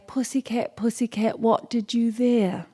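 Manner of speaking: lightly mock British royal accent. Shown as a demonstration. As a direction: model a British accent, drawing out the question. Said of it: "can you say it like that".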